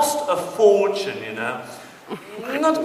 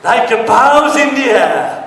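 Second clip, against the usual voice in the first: like a boss; 6 semitones higher, 9 dB louder than usual. Acted. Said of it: "repeated louder".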